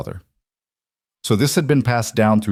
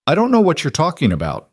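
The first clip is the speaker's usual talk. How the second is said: raised, higher voice calling through the house; called out; 8 semitones higher than usual. A narrator's reading. Old man calling back to strangers at the door, raised voice. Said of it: "Walter called back".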